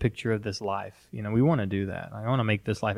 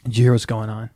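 mock alarmist panic; faster than usual. Mocking an alarmist friend panicking over bank news. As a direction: play the frantic alarmist friend. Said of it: "not being like".

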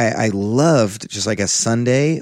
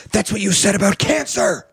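deadpan zinger; 12 semitones higher than usual. Retold or imitated. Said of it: "And I go".

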